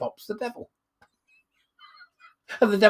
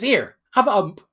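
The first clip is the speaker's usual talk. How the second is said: devil's punchline; 4 semitones higher, 8 dB louder than usual. Acted.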